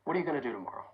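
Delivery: gonna said unstressed, run together; casual American reductions; relaxed reductions. Shown as a demonstration. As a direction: let the reductions slide past. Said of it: "listen as I say the following sentences".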